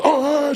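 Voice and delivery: high, startled "oh"; brief mock cry of phobic panic; imitated panicked gasp. Woman facing a snake held to her face, imitated panicked cry. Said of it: "she starts to do that".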